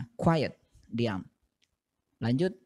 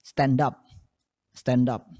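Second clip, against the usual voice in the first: fast; 5 dB louder, slower than usual. Shown as a demonstration. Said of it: "kalian kalau ucapkan dengan cepat".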